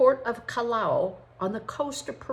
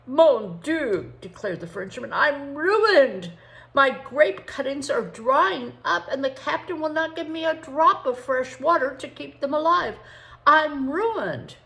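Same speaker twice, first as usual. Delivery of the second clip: higher, louder distraught Frenchman; French immigrant in despair; 7 semitones higher, 8 dB louder than usual. Acted. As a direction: play the Frenchman losing everything. Narrator voices the French immigrant.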